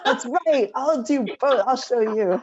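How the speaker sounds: mock vow, giggling; laughing defiance. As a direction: tease back with a laugh.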